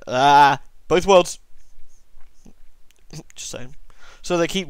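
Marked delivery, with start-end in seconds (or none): 0.1-1.4 mock ominous echo.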